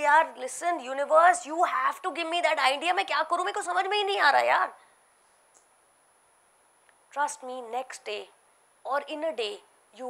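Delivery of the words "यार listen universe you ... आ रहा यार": higher, pleading self-talk; pleading with the universe. Retold or imitated. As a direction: beg the universe for an idea. Acts out her bedtime plea.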